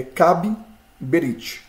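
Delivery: teacher showing the doubled bet, "Kab Berit" split into two parts with a pause. Shown as a demonstration. Teacher shows students the doubled letter, "Kab Berit" split at the double b. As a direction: say "Kab Berit" with a b closing Kab and another opening Berit. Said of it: "nós teremos dois beits aqui".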